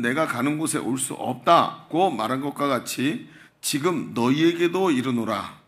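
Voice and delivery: measured, solemn Bible reading; deliberate read-aloud cadence; scripture reading. Acted. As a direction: read the verse out formally to a congregation.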